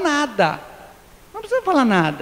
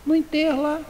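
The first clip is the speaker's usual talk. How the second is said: higher, indignant complaint about who missed the funeral; offended relative; 6 semitones higher than usual. Retold or imitated. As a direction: call out the absent friend, hurt. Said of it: "bate o olho em você, fala".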